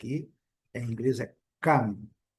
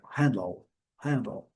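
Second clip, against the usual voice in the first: "Handle" strong first syllable, very weak second; "Handle" as strong-weak, falling away; slower than usual. Shown as a demonstration. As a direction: stress the start of "Handle", let the ending drop. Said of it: "a segunda sílaba bem fraquinha".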